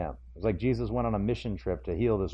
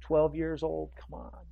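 urgent Jairus; 4 semitones higher, 6 dB quieter than usual. Retold or imitated. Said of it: "Jairus is like".

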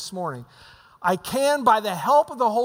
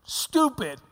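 put-on slow, higher four-year-old voice; little boy; 5 semitones higher, much slower than usual. Boy answering mom, a slow higher child voice. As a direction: point the finger back innocently. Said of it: "he goes".

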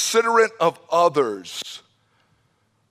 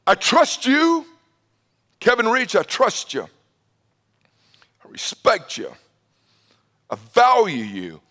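sincere. Retold or imitated. One man telling another he trusts him, earnest and sinking. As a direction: say it man to man, meaning every word. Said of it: "For one man to look at another man and say".

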